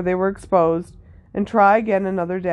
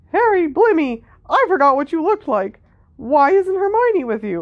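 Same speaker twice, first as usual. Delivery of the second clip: pitched up with bouncing intonation; 8 semitones higher than usual. Reading a story aloud, voicing a character's line in a Mickey Mouse voice. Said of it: "is it a Mickey Mouse voice?".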